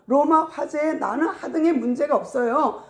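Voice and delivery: mock self-defence; arguing in defence. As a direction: deny the charge insistently. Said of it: "하고 변론하다 보니까".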